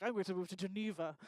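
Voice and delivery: lightly imitated posh woman; mock a grand sibling, softly; understated posh put-on voice; posh sister. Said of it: "she's exceedingly posh. And she's like".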